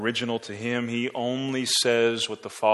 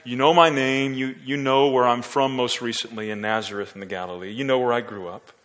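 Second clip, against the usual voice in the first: plain affirmation. Shown as a demonstration. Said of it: "a statement of affirmation where he says".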